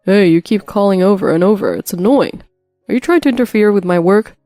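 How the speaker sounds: annoyed husband. Acted. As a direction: scold her for bothering you.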